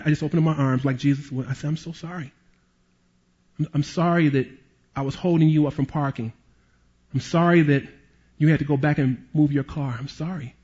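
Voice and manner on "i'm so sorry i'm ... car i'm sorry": gentle apology. Retold or imitated. Apologizing to angry man tenderly.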